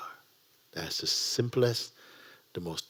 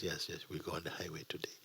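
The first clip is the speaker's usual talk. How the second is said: calm instructor; 3 semitones lower, 13 dB quieter, faster than usual. Retold or imitated.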